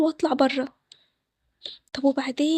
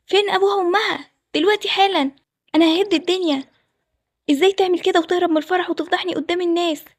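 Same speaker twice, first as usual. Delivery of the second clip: angry rant; 3 semitones higher than usual. Acted. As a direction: rant at everyone about the money and shame. Groom rages at jilted wedding. (صوت عالي غاضب بيزعق)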